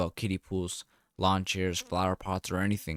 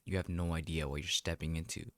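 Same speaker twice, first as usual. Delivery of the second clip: whispered; 2 semitones lower, 7 dB quieter than usual. Acted.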